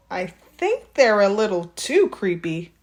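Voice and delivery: lightly voiced mother, mildly dubious; gently hesitant parent; a hint of doubtful Mom. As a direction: Mom mildly refusing her son. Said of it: "said Mom".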